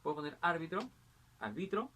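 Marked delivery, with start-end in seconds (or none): 0.4-0.8 árbitro with a strong ÁR; stress on first syllable. Shown as a demonstration. Teacher varying the accent for students, árbitro stressed on ÁR. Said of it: "el acento puede variar". 1.4-1.9 arbitro said ar-BI-tro; stress on middle syllable. Shown as a demonstration. Teacher varying the accent for students, arbitro stressed on BI. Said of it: "el acento puede variar".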